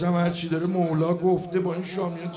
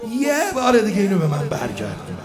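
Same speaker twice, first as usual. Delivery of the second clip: loud pleading prayer; 7 dB louder than usual. Acted.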